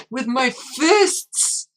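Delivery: high, slow, drawn-out with my fists; defiant battle cry. Acted. Streamer voicing a brawler, slow high defiant cry. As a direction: roar it out like a brawler. Defiant game character shouts.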